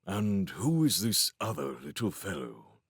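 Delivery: lightly voiced genial king. A narrator's reading. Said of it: "the king asked genially".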